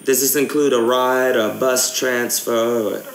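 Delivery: casual fake English accent for a prank call; put-on English accent. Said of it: "gaming in an English accent".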